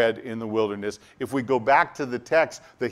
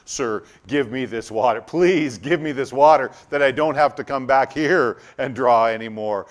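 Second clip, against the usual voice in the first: pleading woman; 7 dB louder than usual. Retold or imitated.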